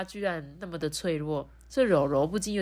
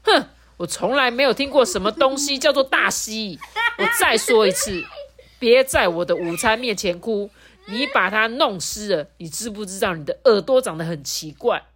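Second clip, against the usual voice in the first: mildly irritated outburst; angry bully; 3 semitones higher than usual. Acted. Lulu hops mad at Rourou's crying, scolding with mild anger. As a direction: stamp your feet as you scold. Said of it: "很生气的跳脚".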